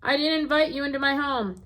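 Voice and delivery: a small creature protesting the intrusion; small animal voice. Acted. Skunk voice in story.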